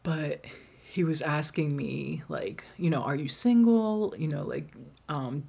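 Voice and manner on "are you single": light imitation of a forward guy, higher; lightly voiced pickup line question; mock suitor. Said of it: "his English was kinda broken".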